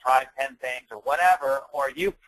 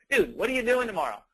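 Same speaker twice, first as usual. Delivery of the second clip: casual bro text; 6 semitones higher than usual. Retold or imitated. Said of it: "if you talk like I talk, I'd be like".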